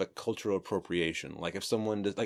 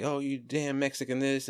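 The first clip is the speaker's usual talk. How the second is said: higher-pitched imitation of old-school ribbing; mock trash talk; 6 semitones higher than usual. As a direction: toss it off as a retold jab. Retold workplace trash talk.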